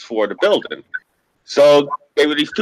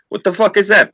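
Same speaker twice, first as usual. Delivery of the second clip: shocked; 9 semitones higher, 5 dB louder than usual. Retold or imitated. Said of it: "You know?".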